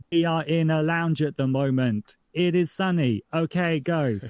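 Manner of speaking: blatant exposition. Acted. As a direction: spell out the scene far too blatantly, as a joke. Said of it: "without blatantly going".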